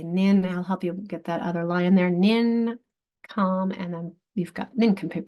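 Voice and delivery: nin, com, then nincompoop blended whole; teacher chunking nincompoop; syllable chunking. Shown as a demonstration. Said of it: "split the two C's".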